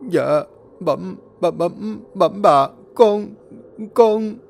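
frightened stammer. Acted. Servant stammering to his mistress, terrified. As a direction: stutter out the words in terror. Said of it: "nói lắp bắp không thành lời".

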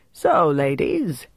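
put-on slow, lightly French-accented English; a Frenchman trying his English. A narrator's reading. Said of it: "he said in English".

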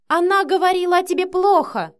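loud, high, stamping outburst; детская истерика; blurted tantrum. A narrator's reading. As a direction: blurt it out in a childish rage. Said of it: "выпалила Синди, топнув ногой".

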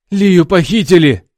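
high, loud barked news; Alex barks at Orlam that Lia is kidnapped; barking. A narrator's reading. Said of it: "рявкнул я".

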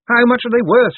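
loud, high showman's cry; shouting. A narrator's reading. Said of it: "shouted Moist".

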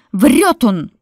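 loud, high shriek. Acted. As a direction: shriek the accusation. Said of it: "взвизгнула Марфа".

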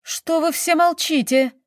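high-pitched, agitated cry; distressed exclamation. A narrator's reading. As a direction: exclaim it, demanding an answer. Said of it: "воскликнула графиня". (взволнованное восклицание)

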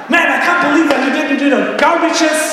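mock an exasperated wife scolding; imitated wife's yell. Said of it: "she yells at me, or she's like".

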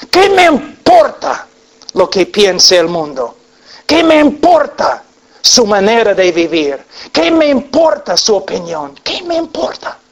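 fiery rhetorical questions; impassioned questions. Acted. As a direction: hammer each question home. Preacher's rising rhetorical questions.

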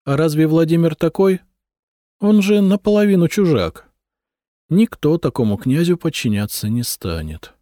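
high voiced wife, sure of her reasoning; a sharp, knowing wife lays out the facts; wife's voice. A narrator's reading. Wife explaining to her husband why the heir won't do, high voiced.

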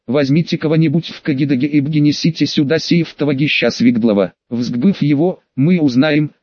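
картавое «р»: «бгенесите», «Свигдлова», «взгбыв» вместо «р»; Ленин картавит, «р» звучит как «г»; картавя. A narrator's reading. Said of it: "от волнения картавя больше обычного". (картавая речь, «Свигдлов» вместо «Свердлов»)

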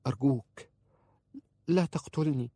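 high, frightened pleading; whispered plea. A narrator's reading. Frightened wife begs husband not to kill her, whispered plea. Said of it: "وهمست".

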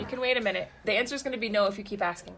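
firm parental scolding; stern mom voice. Real, not acted. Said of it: "That was super momish".

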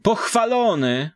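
high, bright peasant greeting called out; village woman's greeting. Acted. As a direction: greet them like an old country woman. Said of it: "zatrzymała się, pozdrawiając". (wysoki głos wiejskiej baby)

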